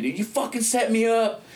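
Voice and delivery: high, laughing imitation of a screamed accusation; mock screaming. Arrested man accusing cops of a setup, mock screaming. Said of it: "And I'm screaming".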